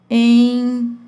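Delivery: ENROLADO split as long EN, pause, RO-LA-DO. Shown as a demonstration. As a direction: hold EN in ENROLADO, then measured syllables. Teacher sounds out example word.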